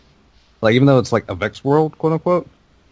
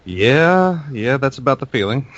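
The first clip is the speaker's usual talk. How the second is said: higher, drawn "yeah" of mock agreement; retold wry reaction, pitched up; wry recognition; 5 semitones higher, 3 dB louder than usual. Player reacting to a gun called Sorrow, wry recognition. Acts own reaction to item name.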